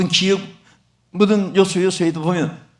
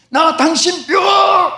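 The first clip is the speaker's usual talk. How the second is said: higher, louder, slow echoing shout; echo from the mountain; 9 semitones higher, 5 dB louder, much slower than usual. Retold or imitated. The mountain echoes the child's words, a slow ringing shout. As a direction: call it back like the mountain echo. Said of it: "어디서 막 또 소리가 오는 거예요".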